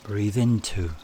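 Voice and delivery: calm meditation guide with long pauses between phrases; guided meditation. Acted. Meditation leader has listeners picture flowing water, calm guided delivery.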